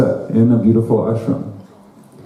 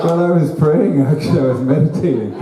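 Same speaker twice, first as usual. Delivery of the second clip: laughing husband; 5 semitones higher than usual. Retold or imitated. Husband's excuse.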